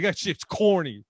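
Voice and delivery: slow, deadpan straight-faced verdict; flat deadpan put-down of a joke. Pretend. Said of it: "straight face him and be like".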